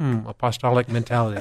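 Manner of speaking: imitated muttering. Retelling a quiet aside after asking about leading leaders: imitating muttering under breath. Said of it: "and under my breath".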